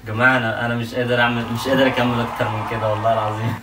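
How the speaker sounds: cracks up mid-sentence, then laughs outright; can't keep a straight face; breaking into laughter. Real, not acted. Husband giving up the prank on camera, laughing. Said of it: "اعصابي متوتره ومش قادر اكمل".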